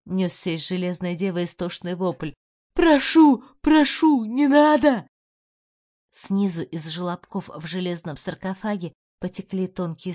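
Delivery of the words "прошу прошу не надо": high, loud begging in agony; screaming plea. A narrator's reading. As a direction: beg for mercy, much higher and louder.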